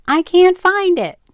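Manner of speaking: called out loud and high from the hall; calling back. A narrator's reading. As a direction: shout it back to mother down the hall. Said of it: "called back".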